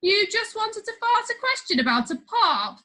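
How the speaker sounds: loud, high mocking question; mocking prime minister. A narrator's reading. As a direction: jeer at the boy's request. PM mocks the boy.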